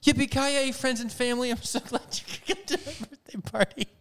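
a giddy, slurring cartoon scientist; Rick voice. A friend doing Rick at a Die Hard birthday, in a high, fast cartoon voice. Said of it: "Rick and Morty thing".

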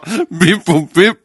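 robot beeps through laughter; giggling while doing robot beeps; laughing robot voice. Pretend. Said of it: "You did that hand movement as well".

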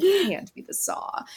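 high-pitched jokey doctor quote; mock doctor's demand. Doctor's line repeated for laughs.

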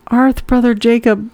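a hammed-up, laughing attempt at an Amish accent; joking Amish accent, giggling through it; mock Amish accent. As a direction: put on a silly Amish farm-boy accent and crack up mid-line. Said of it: "trying to do it in, like, a weird accent".

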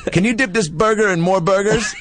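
high, chirpy recorded doll line; pull string toy. Pretend. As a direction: play it like a talking doll. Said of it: "Pull the string again".

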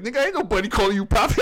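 high, loud mocking disbelief; incredulous retort. Friend scoffing at Patricio's nickname, high and loud.

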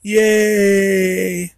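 high, giddy mock cheer with a cackle; mocking gleeful fans. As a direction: parody moviegoers who cheer for the killing. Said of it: "And everybody loved that movie".

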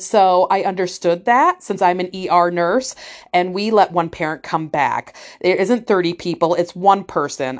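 deliberately slowed, pointed retort; slow, measured comeback; slow talk back. Retold or imitated. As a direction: mirror his condescending slow speech right back. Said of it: "you slow talk back to him".

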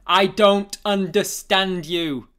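slow, high mock shout. Explorer to uncomprehending bird folk, shouting slowly. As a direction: bellow each word slowly, as if volume translates. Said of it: "say it louder".

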